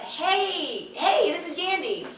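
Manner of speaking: high, slow and sugary phone greeting; sweet phone voice. Retold or imitated. Caller greeting the receptionist in a sugary, high phone voice. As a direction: put on a bright, polite caller voice.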